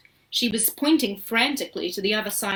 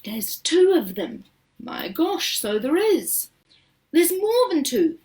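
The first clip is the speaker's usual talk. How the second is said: voices rising and louder while counting; a crowd calling out in wonder; excited shouting; 7 semitones higher, 5 dB louder than usual. A narrator's reading. The visitors shouting at the riverbank, excited. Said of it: "everybody started shouting at once".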